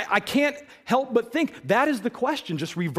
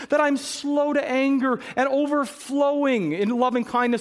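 impassioned God voice; 6 semitones higher than usual. Acted. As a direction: plead with Jonah as God. Voicing God pleading with Jonah.

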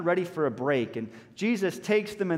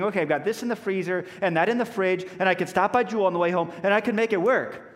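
fast, louder, rushed planning; mock panic; 4 semitones higher, 3 dB louder, faster than usual. Congregant panicking over feeding everyone, hurried. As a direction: rattle the plan off in a flurry. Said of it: "panicking and thinking".

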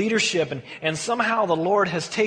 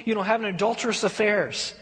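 ordinary talk

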